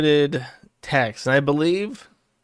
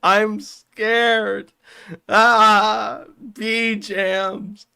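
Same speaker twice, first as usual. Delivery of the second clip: much higher put-on yell with laughs; laughing mock scream; 7 semitones higher, much slower than usual. Worski screaming about bees, voiced laughing. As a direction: scream it while giggling. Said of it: "Worski continues to scream".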